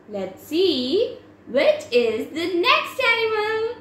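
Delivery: sing-song voice for little ones; reading to a toddler. Acted. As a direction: talk brightly to a small child.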